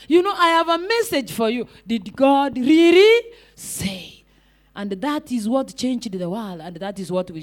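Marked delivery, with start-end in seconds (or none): 1.9-4.1 "really" stretched out, "say" set apart; slow emphatic question. Acted. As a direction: draw out "really" slowly, then land on "say". Delivering the key message line slowly.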